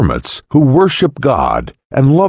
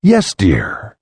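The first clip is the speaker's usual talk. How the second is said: gently; 3 semitones lower than usual. Acted. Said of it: "The daughter answered gently".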